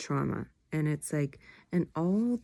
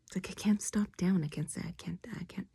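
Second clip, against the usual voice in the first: whispering. Real, not acted. Late-night whispered vlog, half sedated.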